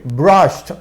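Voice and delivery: "brushed" as "brusht", ending in t. Shown as a demonstration. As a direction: finish "brushed" on a released t. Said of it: "terminado en T".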